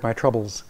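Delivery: my troubles run together as a single word; as one word. Shown as a demonstration. Lecturer demonstrating clitic grouping, my troubles said as one word. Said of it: "as you say it as one word".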